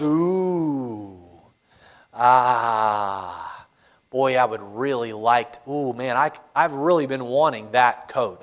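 low, quiet, tempted murmur; tempted Balaam. Retold or imitated. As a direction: savour the bribe under your breath, longingly. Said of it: "Balaam looks at it and goes".

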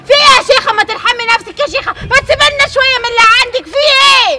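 a sister crying out her resentment; tearful outburst. Acted. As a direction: vent years of jealousy through tears. Jealous sister bursts out crying.

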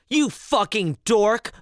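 a lightly voiced mom's insult, drawn out; slow, teasing put-down from mom; mom scolding. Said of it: "the mom said".

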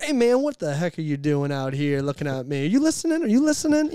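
high, shouting hype-man energy; loud comedian pitch. Retold or imitated. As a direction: yell it like a brash comedian selling you. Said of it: "they'd get on there and be like".

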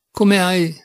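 astonished half-question; amazed. A narrator's reading. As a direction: caught off guard, the words tumble out. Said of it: "fece per dire meravigliato".

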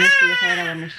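very high squeak. Real, not acted. Mother squeaking in baby talk about bedtime. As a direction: squeak it sweetly.

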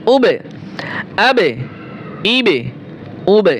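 "উবে, আবে, ইবে", each ব bouncing off the lips; echoing qalqalah. Shown as a demonstration. Teacher drilling ba, "উবে, আবে, ইবে" with qalqalah bounce. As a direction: release every ব into a short falling echo. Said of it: "ঠোঁট দিয়ে কি হবে".

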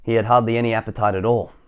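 animated storybook reading; lively, measured telling of the tale; story narration. A narrator's reading. Reader telling children about Mister Skinny, storybook narration.

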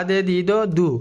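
দে, দি, দ, দু each said distinctly; syllable drill. Shown as a demonstration. Teacher demonstrates syllables for practice, clear drill. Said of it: "আমরা প্রথমে উচ্চারণ করি".

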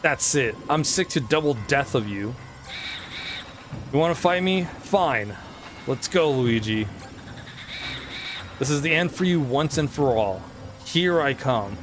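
lightly voiced gloating ghost king; a hint of a smug villain; King Boo voice. Voices King Boo's dialogue.

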